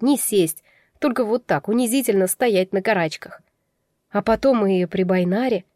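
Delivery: usual speaking voice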